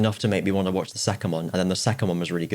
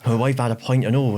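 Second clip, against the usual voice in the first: acted line; 4 semitones higher, 4 dB louder than usual. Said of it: "his mate's like".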